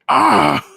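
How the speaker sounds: sudden loud furious shout; angry roar. A narrator's reading. Father roaring at daughter, an enraged wordless shout. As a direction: explode with a wordless bellow. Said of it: "He was so angry".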